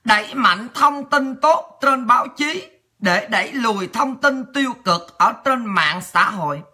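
measured, formal bulletin reading; news read. Acted. Reading listeners a parliament news item, measured news read.

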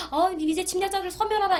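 high, loud rally chant, falling at 소멸하라; repeated slogan shout. Retold or imitated. Old North Korean propaganda slogan.

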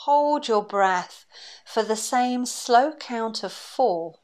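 calm, unhurried breathing-exercise voice; guided meditation. Acted. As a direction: guide them gently through each breath, leaving long pauses.

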